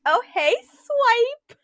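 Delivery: high, drawn-out mock flirting; hammed-up flirty greeting, pitched high; thirsting for Swiper. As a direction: coo it as a joking come-on, half laughing. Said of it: "and then be thirsting for Swiper".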